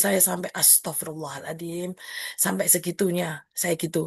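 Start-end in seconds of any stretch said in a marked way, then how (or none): 0.6-1.9 soft, slow, dismayed astagfirullah; dismayed exclamation. Retold or imitated. Teacher recalling a student's insults, dismayed quiet exclamation. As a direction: breathe it out in quiet disbelief. Teacher's shocked reaction to report.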